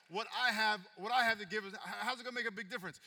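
a disciple objecting that he has too little; doubting disciple. Acted. Disciples voiced doubting, loud.

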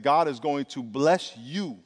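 slow, gentle reassurance; reassuring. Retold or imitated. Pastor on the phone to a crying donor, slow reassurance. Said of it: "and I said".

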